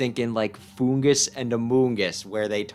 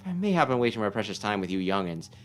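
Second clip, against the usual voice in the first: put-on eccentric old sage; 12 semitones higher than usual. Player voicing the strange old mushroom sage for the boy. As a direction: coo it like a batty hermit who hears mushrooms.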